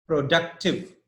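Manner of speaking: "productive" as pro-DUC-tive; teacher modelling "productive" with middle syllable stressed; stress on second syllable. Shown as a demonstration. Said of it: "the stress is on D U".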